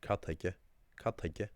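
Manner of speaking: Cathaice repeated slowly; Ulster word. Shown as a demonstration. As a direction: give Cathaice the Ulster sound.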